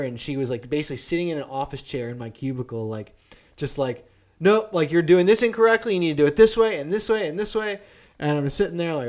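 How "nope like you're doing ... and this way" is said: mock bossy team lead, louder and higher; a team lead correcting every move; nagging boss. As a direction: lecture him like a know-it-all supervisor. Team lead nagging, voiced by teller.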